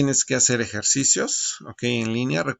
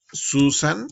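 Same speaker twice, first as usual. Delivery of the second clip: calling out; 4 semitones higher, 5 dB louder than usual. Pretend. Calling out to Susan.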